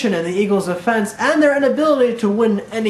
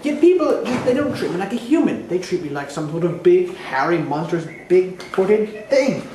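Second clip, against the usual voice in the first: aggrieved Bigfoot. Acted. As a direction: articulate Bigfoot airing a grievance.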